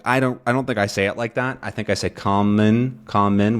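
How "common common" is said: "common" with a clear vowel in the second syllable; full vowel. Shown as a demonstration. Teacher modelling her own full-vowel version. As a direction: sound out both syllables fully. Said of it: "with a full vowel sound".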